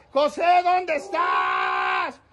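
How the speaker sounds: long, drawn-out searching call. Real, not acted. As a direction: call slowly for someone out of sight. Searching and calling for José.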